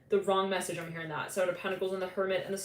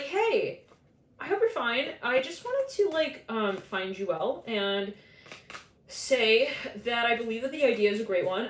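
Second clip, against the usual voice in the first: higher, sweet mock politeness; sugary polite email; 3 semitones higher than usual. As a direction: read it out like an overly nice stranger. Mock sweet message voiced.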